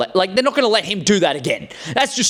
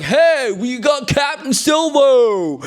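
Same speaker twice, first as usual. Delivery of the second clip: crew guy announcing; 9 semitones higher, much slower than usual. Retold or imitated. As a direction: call it out like a proud grunt. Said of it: "And he's like".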